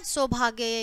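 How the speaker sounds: सौभाग्य said clearly as sau-bhaag-ya; correct pronunciation. Shown as a demonstration. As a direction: spell out सौभाग्य syllable by syllable. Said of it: "इस तरह से होगा". (सौभाग्य का शुद्ध उच्चारण)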